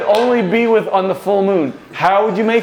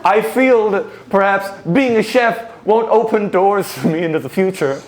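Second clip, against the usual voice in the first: loosely held mock-Swedish accent; half-hearted Swedish accent; faltering Swedish accent. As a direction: confide seriously in a shaky attempt at Swedish. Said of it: "Your Swedish accent".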